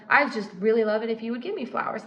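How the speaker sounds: quick, sugary but hollow ask; fake sweet request. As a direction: ask nicely with nothing behind it. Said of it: "she could say it in the most nicest way".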